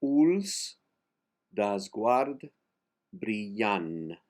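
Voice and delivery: "brillant" said "brijan", final T silent; word by word Catalan. Shown as a demonstration. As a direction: break up "Uls desguard brillant" word by word, no final T. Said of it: "The last T in brilliant is silent".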